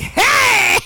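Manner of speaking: high, loud party call; excited shout of hey. Pretend. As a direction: hail friends across the cookout. Calling out at the cookout.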